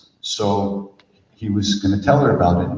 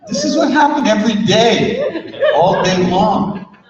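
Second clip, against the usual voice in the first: much higher, talking through laughter; laughing; 13 semitones higher, 4 dB louder, slower than usual. Real, not acted. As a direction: say it still laughing. Laughing about the daily absurdity.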